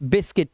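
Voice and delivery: बिस्किट with a short इ sound; correct pronunciation. Shown as a demonstration. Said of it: "इसलिए बोलते हैं इसका बिस्किट". (सही उच्चारण: बिस्किट, छोटी इ)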